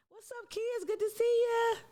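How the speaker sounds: playful high-pitched hello to viewers; silly greeting voice. Pretend. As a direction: squeak a goofy hello to the kids.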